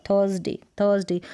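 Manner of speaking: थर्सडे said as "thuhs-day", r unheard; silent-r THURSDAY. Shown as a demonstration. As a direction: repeat थर्सडे in two syllables without r. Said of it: "र का sound तो आपको सुनाई ही नहीं".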